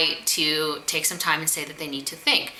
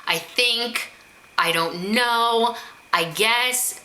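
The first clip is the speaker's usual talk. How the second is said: hesitant hedging; 5 semitones higher, much slower than usual. Shown as a demonstration. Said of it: "Sometimes people disqualify at the end".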